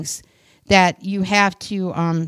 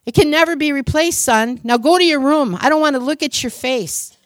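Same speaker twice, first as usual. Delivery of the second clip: higher, sharper voice of a furious father; angry scolding father; 6 semitones higher than usual. Acted. Angry father scolding his son over the broken vase. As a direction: scold the boy for breaking the heirloom.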